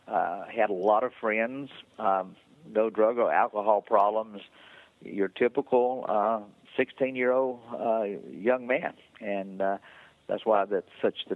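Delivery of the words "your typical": "typical" slow and higher; stress on TYPICAL. Real, not acted. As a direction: draw out "typical" for emphasis. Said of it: "I stress the word typical".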